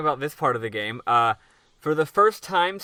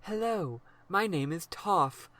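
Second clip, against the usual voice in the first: eighties anime dub voice; 3 semitones higher, slower than usual. Retold or imitated. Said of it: "like, eighties American anime dub voice".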